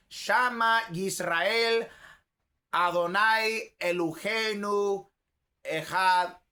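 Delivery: slow, deliberate recital of Hebrew words; Jewish recitation. Shown as a demonstration. Preacher showing how Jews say the Shema, slow recitation. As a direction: recite it slowly, word by word, held vowels. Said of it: "lo dicen así".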